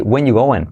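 "when you going" with "are" left out; casual dropped verb. Shown as a demonstration. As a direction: skip "are", run it together. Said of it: "podemos decir así".

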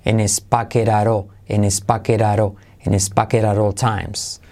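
"pocket at all" chained as "paqueraró", evenly repeated; linked repeat-after-me drill. Shown as a demonstration.

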